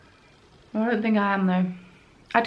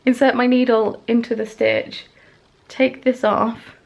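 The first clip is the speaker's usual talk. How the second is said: 1 demonstrating; 2 semitones higher, 6 dB louder, slower than usual. Shown as a demonstration. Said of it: "This is not a tutorial".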